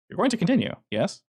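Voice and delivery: high, sly villain prod; a hint of a smug boss; menacing prod. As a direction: nudge him on with false politeness. Kincaid's look.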